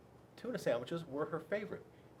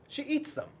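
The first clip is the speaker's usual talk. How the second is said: punchline squeal; 12 semitones higher than usual. A narrator's reading. Punchline, T-Rex eats kids.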